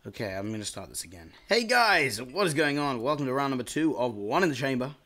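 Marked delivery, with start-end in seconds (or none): 1.5-4.9 upbeat YouTuber welcome; energetic intro. Real, not acted. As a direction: sell the intro with pep. Restarted intro, bigger energy.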